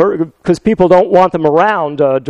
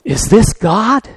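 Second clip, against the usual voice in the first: nervous, slow wondering; a hint of a frightened burglar; slow awed whisper-like question; 4 semitones higher, slower than usual. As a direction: ask heaven warily and slowly. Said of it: "he's saying to himself".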